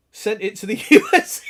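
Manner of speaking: loud, cracking up mid-sentence; laughing. Real, not acted. Reading Pip's parcel mishap to the stream, helplessly laughing. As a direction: lose it into high laughter. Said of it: "I shouldn't laugh".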